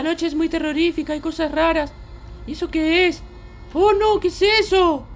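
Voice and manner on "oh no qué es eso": mild mock fright. Spots something strange at night.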